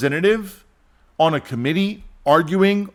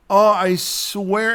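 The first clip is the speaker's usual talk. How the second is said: bickering politician; 5 semitones higher, much slower than usual. Retold or imitated.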